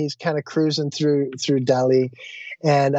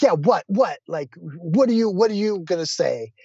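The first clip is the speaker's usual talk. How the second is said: mildly impatient, higher-pitched retort; retold testy challenge, pitched up; losing his cool; 3 semitones higher than usual. Passenger challenging a rickshaw driver over the fare, testy. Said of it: "losing my cool".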